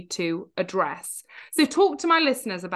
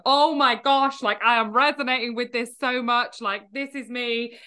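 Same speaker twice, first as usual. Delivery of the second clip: louder, emphatic start that eases off; excited recognition; 3 semitones higher, 3 dB louder than usual. Acted. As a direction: gush as a listener who relates, stretching the end. Imagined listeners reacting with recognition.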